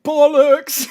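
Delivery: loud, laughing outburst; laughing exclamation. Real, not acted. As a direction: blurt it out through a laugh.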